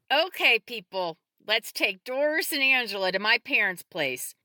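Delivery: loud, brisk-minded leader giving orders; taking charge. A narrator's reading. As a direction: address the whole group with authority. Woman directs group at emergency.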